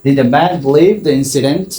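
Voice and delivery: slow question ending in a rise; slow teacher question demo; slow model question. Shown as a demonstration. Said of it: "question mark".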